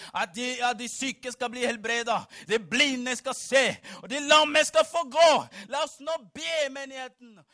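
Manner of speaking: proclamation swelling to a loud peak; building preaching. Acted. Preacher proclaiming healing for sick and lame, building to a shout. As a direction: build steadily to a full-force cry.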